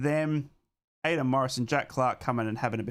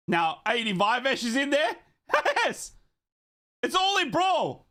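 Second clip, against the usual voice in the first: laughing excitement; 10 semitones higher than usual. Real, not acted. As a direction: cackle with delight as the brawl starts. Fans watch a brawl break out.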